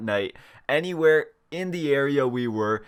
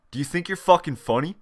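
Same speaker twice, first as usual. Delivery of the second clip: angry question rising on you're; pissed off cop; 3 semitones higher than usual. Retold or imitated. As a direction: stress you're with a rising end. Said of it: "the most pissed off face".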